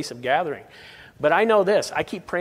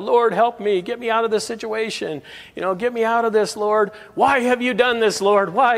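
desperate prayer; 6 semitones higher than usual. Retold or imitated. Believer in trouble pleads with God, higher desperate cry. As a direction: cry out to God like you're trapped. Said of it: "we pray out".

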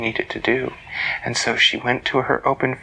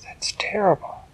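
put-on higher girl's voice, gently shocked; a young girl hearing sad news; lightly voiced young girl, higher; Elise voice; 8 semitones higher than usual.

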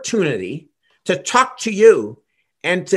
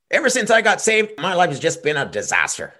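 laughing mock complaint; 2 semitones lower than usual. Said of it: "gonna say to you".

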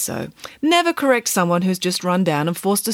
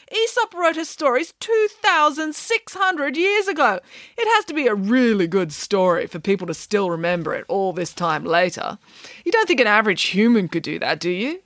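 assertive nanny; 6 semitones higher than usual. Acted. Nanny arguing Aesop was no human, assertive. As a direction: argue insistently, pitch high then easing down.

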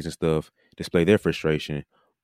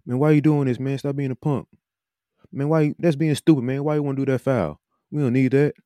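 hammed-up scolding coach; 9 semitones higher than usual. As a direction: chew the kid out like a fed-up coach, pitched high.

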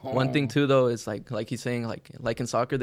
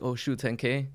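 an amazed little gasp at ten thousand; impressed surprise; slower than usual. Retold or imitated. Newcomer first seeing ten K numbers, impressed. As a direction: sound wowed by the number. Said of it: "right away you get desensitized to it".

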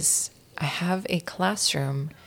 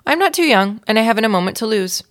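heroic insistence; 5 semitones higher, 5 dB louder than usual. Acted.

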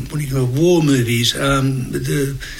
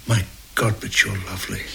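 pickup line; 5 semitones lower, 7 dB quieter than usual. Retold or imitated. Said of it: "he chats up every girl with".

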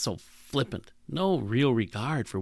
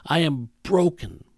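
louder, pained self-pity, lightly voiced; mock despair; 4 semitones higher, 5 dB louder than usual. The old self speaking its despair, lightly voiced. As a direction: sound like someone who believes they're broken. Voicing the Adam-glasses self-talk.

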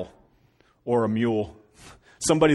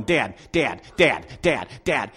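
put-on pestering child; 3 semitones higher, 7 dB louder, slower than usual. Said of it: "I hear him going".

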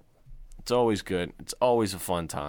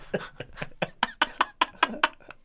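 high airy alien squeal; alien noise. Pretend. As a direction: make a weird alien squeal. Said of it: "What is that?".

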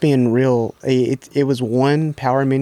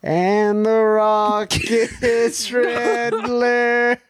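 very high slow squeal; squealing baby talk aunt; 10 semitones higher, much slower than usual. Pretend. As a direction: squeal it like a giddy old aunt. Squealing voice gag.

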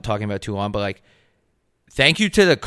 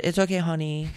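imitated Asian lady's accent, higher and softer; 6 semitones higher, 5 dB quieter than usual. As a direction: do a soft, high Asian-accented reassurance. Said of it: "I was gonna do an Asian accent".

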